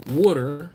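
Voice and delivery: "Water" alone, firmly, as WAW-ter; proper pronunciation. Shown as a demonstration. Proving they're not Southern, "Water" pronounced properly. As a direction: enunciate "Water" properly, a little emphatic. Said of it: "I still say water properly".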